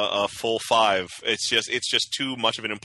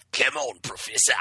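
Australian Wolverine. Retold or imitated. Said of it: "Wolverine inexplicably has a thick Australian accent".

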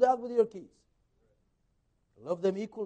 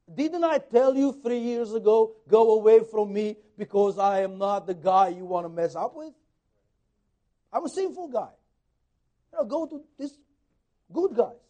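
ashamed pleading; 6 dB louder than usual. Acted. Peter voiced in his shame.

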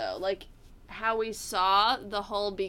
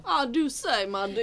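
put-on Southern belle accent. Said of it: "pretty accents are, like, the Carolinas".

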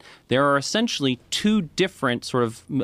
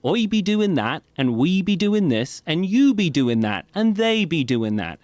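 lightly put-on West Country accent, higher pitched; a hint of a West Country accent; 6 semitones higher than usual. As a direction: voice a Cornish local using "be" for every person. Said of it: "they do say things like".

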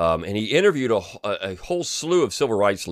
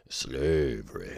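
very low, slow, ominous slavery; mock doom and gloom; 9 semitones lower, 7 dB quieter, much slower than usual. Mocking a video narrator's gloomy emphasis, very low and slow. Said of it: "he just pauses and goes very low and slow".

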